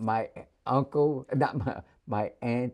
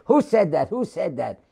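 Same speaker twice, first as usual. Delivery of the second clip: sailor's challenge; 5 semitones higher, 5 dB louder than usual. Retold or imitated.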